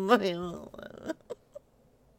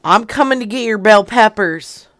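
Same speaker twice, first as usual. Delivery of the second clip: mock threat; 7 dB louder than usual. Prank caller threatens seller.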